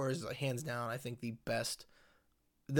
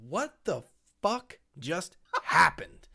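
stunned disbelief; 2 semitones higher, 5 dB louder, slower than usual. Retold or imitated. Retold stunned reaction to twist.

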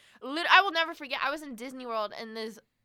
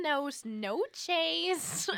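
gringo Spanish; 4 semitones higher, much slower than usual. Retold or imitated. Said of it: "I've heard whiter people speak".

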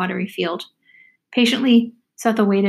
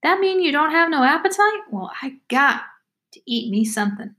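put-on talkative country girl, hungry; 6 semitones higher than usual. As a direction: question in a high girlish voice, then declare. Voices Amy, the girl.

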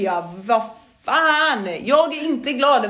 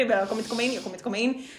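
softer, brooding repeat; fretful mutter; 8 dB quieter, much faster than usual. Retold or imitated. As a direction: mutter it over and over, sinking. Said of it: "Jag bara ältar det". (tyst ältande)

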